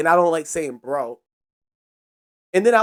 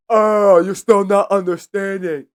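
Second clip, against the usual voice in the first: loud, drawn-out retold exasperation; stretched-out, louder groan of frustration; exasperated mock outburst; 8 dB louder, slower than usual. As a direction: act out losing patience, loud and slow. Acting out the argument, exasperated.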